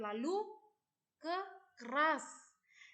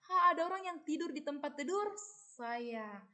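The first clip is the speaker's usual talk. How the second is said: higher, louder startled cry; baby bear shouting; 3 semitones higher, 4 dB louder, faster than usual. Acted. Teacher acts the baby bear yelling for her pupils, higher and louder. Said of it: "yes, shout, teriak".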